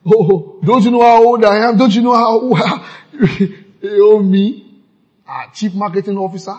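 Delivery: high, loud offended churchgoer; hammed-up affronted member; indignant mock. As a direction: puff up with mock outrage. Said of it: "And I'm still going".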